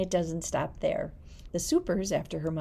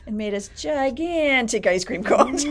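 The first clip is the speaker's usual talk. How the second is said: excited recollection; 6 semitones higher, 10 dB louder than usual. Real, not acted. Excited memory of Dairy Queen.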